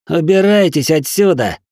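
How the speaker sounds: sly cat ordering them off; cat voice, curt. A narrator's reading. Cat's recorded repeated line.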